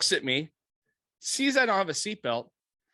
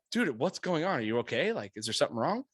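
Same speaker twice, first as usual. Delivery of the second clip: mock-innocent concern, dropping lower and softer; playing dumb; 3 semitones lower, 4 dB quieter than usual. Driver playing dumb to the cop, feigned innocence. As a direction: act lightly clueless and concerned. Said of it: "Now I'm playing dumb".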